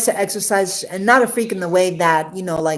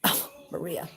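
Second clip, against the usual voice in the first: voicing the ex; 3 semitones higher, 4 dB louder than usual. The ex warns her about this man, lightly voiced. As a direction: play the ex cautioning her friend. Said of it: "she said to me one day".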